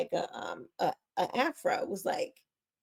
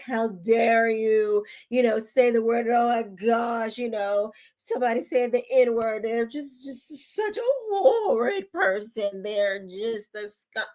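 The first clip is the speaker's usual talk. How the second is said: mock a pearl-clutching TV host, partly shouted; mock groveling Piers Morgan. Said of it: "he's just groveling at the feet of Black people".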